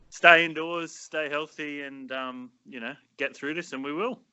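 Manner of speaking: royal address. Pretend. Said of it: "Not to sound like some sort of poor man's Queen Elizabeth".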